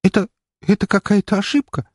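high, frightened stammer; terrified plea. A narrator's reading. Frightened girl pleads with the count, high and scared. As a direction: grasp at any excuse.

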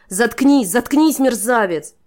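put-on girl screams to silence the traitor; furious. A narrator's reading. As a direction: cut him off in fury, slowing on the insult. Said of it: "в бешенстве оборвала его Энира".

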